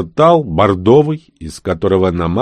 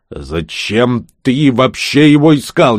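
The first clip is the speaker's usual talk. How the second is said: yell; 3 semitones higher, 4 dB louder, slower than usual. Acted. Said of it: "неожиданно завопил Хамзи".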